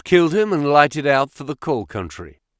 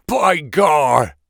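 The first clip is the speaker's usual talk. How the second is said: surprised exclamation; 4 semitones higher, 6 dB louder than usual. Acted. Startled oath at drawn pistol.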